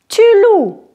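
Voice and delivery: "Tu loues" said as "lou", with no E or S heard; teacher stresses "loues" and drops the final E and S; silent E and S. Shown as a demonstration. Teacher models "Tu loues" for the class with a silent ending. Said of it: "Je ne prononce ni le E, ni le S".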